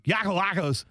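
high-pitched mock announcer; hammed-up name call. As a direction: imitate an announcer belting out a player's name. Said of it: "as the announcer last night kept saying".

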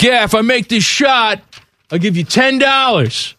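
lightly voiced neighborhood kid making a bet; retold boastful kid. Older kid betting younger ones on a shot, mock boasting. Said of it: "Be like".

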